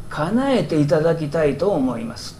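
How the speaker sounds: mildly superior, matter-of-fact request; condescending. Shown as a demonstration. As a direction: say it from above, as to an underling. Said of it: "上から言ってるんですよ".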